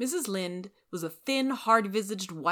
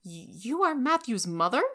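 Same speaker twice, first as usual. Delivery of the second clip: higher, stunned question; shocked exclaim; 6 semitones higher, 3 dB louder than usual. Acted. Anne exclaiming in shock at Rachel. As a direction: gasp it in disbelief. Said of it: "she exclaimed".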